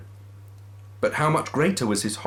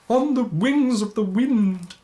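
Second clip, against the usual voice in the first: high, loud, slow spectral voice; ghostly wail; 13 semitones higher, 5 dB louder than usual. Acted. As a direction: intone it like a phantom. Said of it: "replied the ghost".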